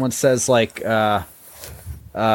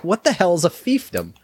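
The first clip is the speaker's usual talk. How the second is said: higher-pitched mock confusion; quoting a puzzled question, pitched up; retold bafflement; 6 semitones higher than usual. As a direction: imitate someone stumped by a word. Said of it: "they could not pronounce fiefdom".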